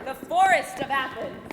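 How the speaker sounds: loud announcer voice; loud scene announcement. Acted. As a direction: call out the scene title.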